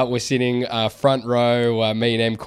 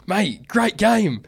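higher, slow, overly friendly greeting; mock friendly; 9 semitones higher, much slower than usual. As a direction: bait him with fake cheer. Setting up the security guard.

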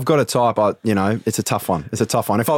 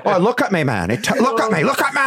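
vain bro voice; 3 semitones higher than usual. Retold or imitated. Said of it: "he goes".

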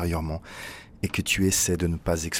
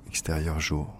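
plain reading voice

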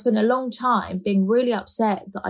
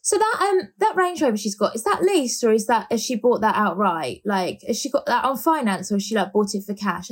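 prying gossip; 2 semitones higher than usual. Retold or imitated. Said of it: "they, like, go to work".

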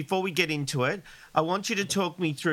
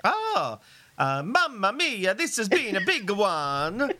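put-on Irish accent; 3 semitones higher, slower than usual. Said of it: "that was my Irish accent".

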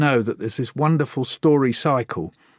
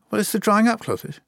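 higher, lightly voiced boy; a hint of a young boy explaining; child's answer; 11 semitones higher than usual. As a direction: explain it like a puzzled kid.

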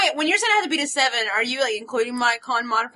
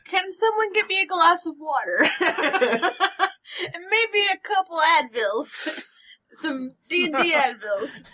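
put-on giggly drunk; 3 semitones higher than usual. Drunk character laughing, asking for water.

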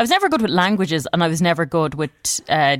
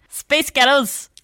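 slow, higher-pitched go at Scottish; attempted Scottish accent; 7 semitones higher, slower than usual. Shown as a demonstration. Amateur retrying her trick phrase for co-host, attempted Scottish accent. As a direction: have another stab at Scottish, pitched up and drawn out. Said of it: "meant to sound a little bit like".

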